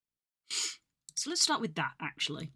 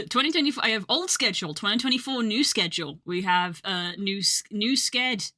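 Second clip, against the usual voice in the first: laughing disbelief; 3 semitones higher, 5 dB louder than usual. Real, not acted. Laughs at messy file names.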